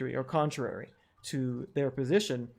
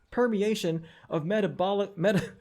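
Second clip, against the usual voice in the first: cracking up mid-jargon, higher pitched; breaking into laughter; 5 semitones higher than usual. Real, not acted. Host can't read the made-up science with a clear conscience, breaking into laughter. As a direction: try to read it, but laugh and stumble. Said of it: "I can't even say it with a clear conscience".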